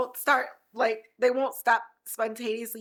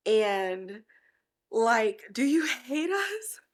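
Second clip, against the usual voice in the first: tearful; much slower than usual. Real, not acted. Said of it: "I'm getting so emotional".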